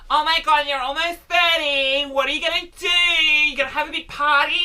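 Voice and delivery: lightly voiced gushing friend, mock shout; nosy friend. Friends asking about the thirtieth birthday, mock gushing shout. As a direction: ham up an overexcited nosy friend. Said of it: "people saying".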